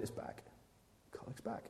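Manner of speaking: hushed retelling of wife. Retold or imitated. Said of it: "And she said".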